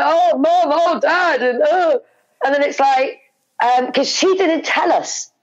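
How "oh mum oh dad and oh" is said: a hint of a crying daughter, higher; mock tearful whimper at mum and dad; imitating crying daughter. Mother imitating her crying daughter, mock tearful. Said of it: "crying, and she was like".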